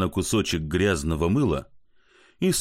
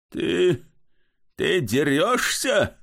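muttering; 7 semitones higher, much slower than usual. Acted. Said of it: "забормотал он".

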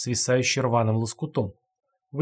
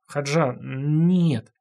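frightened stammer; 3 semitones higher, much slower than usual. A narrator's reading. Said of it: "испуганно забормотал Сава".

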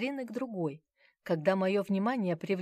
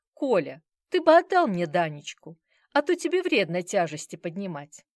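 fussing wife; 8 dB louder than usual. Acted. Wife asking husband for the child.

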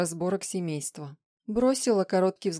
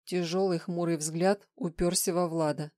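plain reading voice

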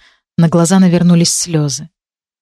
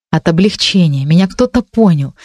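plain reading voice

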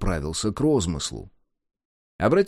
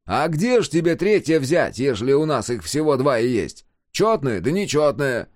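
loud, higher rhetorical question; loud, raised retort to a simpleton; incredulous explaining; 5 semitones higher, 4 dB louder than usual. A narrator's reading. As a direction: explain the obvious, amazed. Marvelling at friend's naivety.

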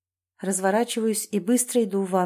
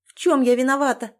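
higher, louder, a tearful sob in the voice; sobbing question; 5 semitones higher, 5 dB louder than usual. A narrator's reading. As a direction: plead through tears. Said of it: "всхлипывает Оксана". (всхлипывая, со слезами)

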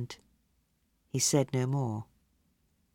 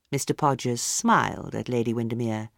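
usual speaking voice

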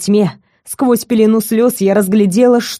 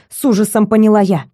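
ordinary delivery, nothing marked

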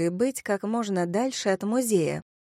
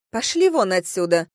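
loud, angry dismissal; spiteful; 5 dB louder than usual. Acted. Woman at window sends drunk girls away, spitefully. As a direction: chase them off with spite. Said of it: "злобно донеслось из окна".

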